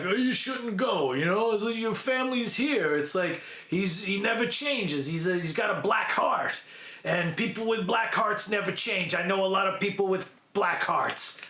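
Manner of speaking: lightly imitated movie tough guy giving a warning; a hint of an action-hero impression; Rambo. Warning her off a black-hearted man, lightly imitated hero. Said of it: "of course Rambo's like".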